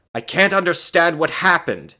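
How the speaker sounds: high, loud bewilderment; astonished exclamation. A narrator's reading. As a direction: exclaim it, utterly baffled. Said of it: "he exclaimed".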